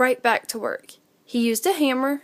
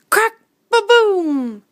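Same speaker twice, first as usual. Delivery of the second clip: high, slow crack and boom, louder; thunder crack; 9 semitones higher, 6 dB louder, slower than usual. A narrator's reading. Narrator plays the thunder Little Owl hears. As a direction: crash it like thunder. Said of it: "sharp cracking sound".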